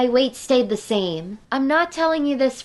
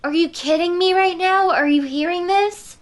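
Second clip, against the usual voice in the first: outraged disbelief; 6 semitones higher than usual. Retold or imitated. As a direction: retell the moment you couldn't believe him. Outraged at bully before principal.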